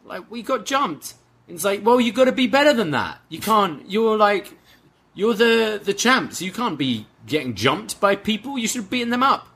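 high, whiny mock indignation; a lightly voiced angry wrestler; mock angry Roddy. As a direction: squeak out a petty complaint. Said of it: "and Roddy just says".

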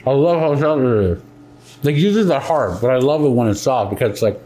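talking while chewing; words round a mouthful of cookie; mouth full. Real, not acted. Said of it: "sorry, I'm eating while I'm talking".

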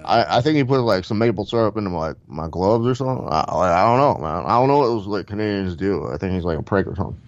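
rambling fighter-bro impression; Diaz brothers. Fighter guessing what was on his gloves, rambling impression. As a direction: puzzle it out as a hazy stoner fighter. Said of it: "the Diaz brothers".

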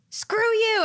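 mock angry brush-off. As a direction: fling it out like slamming a door. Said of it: "be like".

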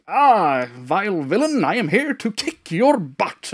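a lightly voiced, gallant British superhero; dapper British hero. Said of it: "Very dapper".

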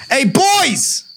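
calling out. Acted. Cop calling out.

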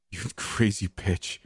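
slow, voice cracking in pain; a cracking, strangled cry; man in agony cursing her; cracking scream. A narrator's reading. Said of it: "he screamed, his voice cracking".

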